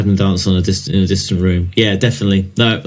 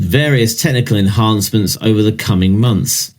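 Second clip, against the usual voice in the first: lightly formal press-release reading; marketing read. Acted. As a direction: read it as marketing copy, understated. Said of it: "I'll do it in a marketing style".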